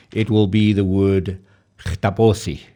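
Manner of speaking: chtaposi with a rasping throat sound at the start; chtaposi, guttural onset. Shown as a demonstration. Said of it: "very guttural G".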